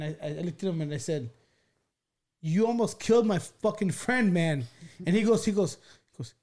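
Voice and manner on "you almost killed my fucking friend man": slow, higher-pitched indignant reproach; retold angry accusation. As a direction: act out confronting the cop, stretching the words. Retold confrontation with the cop.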